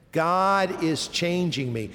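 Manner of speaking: slow, measured repeat; leading recitation. Shown as a demonstration. Preacher has the congregation say it again, slow recitation. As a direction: space the words out for others to join. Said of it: "Say it again".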